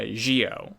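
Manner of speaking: Gio with a soft zh, "ZHEE-oh"; zh sound. Shown as a demonstration. Co-host repeating the name for a learner, Gio with zh. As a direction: start Gio on zh. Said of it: "but it's pronounced".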